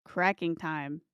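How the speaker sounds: hushed, low nature documentary narration. Acted. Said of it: "I'll do the documentary voice".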